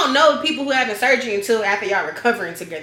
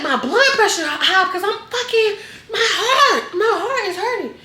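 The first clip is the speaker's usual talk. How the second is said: higher, laughing whiny protest; mock pained complaint; 10 semitones higher than usual. Patient arguing with staff, higher laughing complaint. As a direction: complain it like your heart hurts, half laughing.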